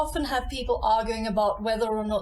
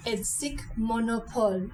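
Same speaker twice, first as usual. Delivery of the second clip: Edsik Monopole with every syllable of Monopole equally weighted, mo-no-pol; no stress on any syllable of Monopole; even syllable stress. Shown as a demonstration. Teacher repeating Edsik Monopole for learners, stress even. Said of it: "keep the stress evenly on each syllable in monopole".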